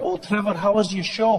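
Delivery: friendly greeting in a mild Scottish lilt; light Scottish accent. Acted. Scottish friend greeting comic backstage, light Scottish accent. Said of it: "my friend Mick was waiting for me backstage, and he was like".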